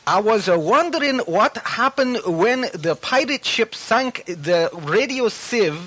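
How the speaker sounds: put-on reading a letter in a botched British accent; bad British accent. Host reading a listener letter in a bad British accent. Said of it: "That's a terrible imitation".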